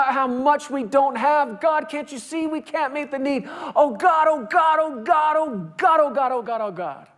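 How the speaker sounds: high pleading that fades to a spent whisper; begging prayer. Retold or imitated. Preacher showing people begging God for help. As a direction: keep begging until the voice gives out. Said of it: "People are begging God".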